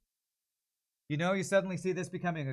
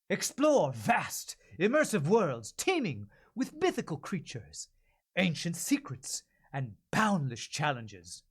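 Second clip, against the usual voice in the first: put-on generic British accent; 5 semitones higher, 3 dB louder, slower than usual. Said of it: "more of a British accent here".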